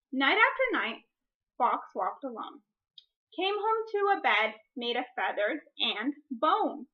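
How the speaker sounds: put-on reading a picture book aloud to children; gentle read-aloud voice; story reading. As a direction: read it like story time for a class.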